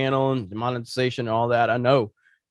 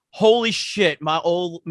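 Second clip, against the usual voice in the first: higher, retold burst of disbelief; mock amazement; 3 semitones higher, much slower than usual. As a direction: imitate someone bowled over by the news. Husband's amazed reaction, retold.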